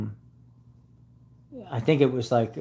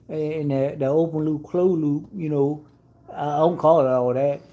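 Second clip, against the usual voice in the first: put-on lightly raised, slow-ish Southern good-ol'-boy voice; Bubba-like country drawl; 4 semitones higher than usual. Mocking the customer who blamed him, in a light country-boy voice. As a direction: mimic the clueless mechanic, a touch higher. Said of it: "he said".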